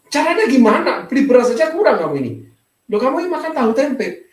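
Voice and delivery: high-pitched, retold disbelief; incredulous questioning. Pastor asking a needy family how they can eat on that, incredulous.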